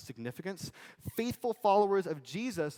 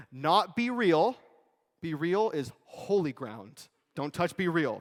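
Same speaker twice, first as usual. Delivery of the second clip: mock outrage; 5 semitones higher, 10 dB louder, slower than usual. Joking about BeReal app.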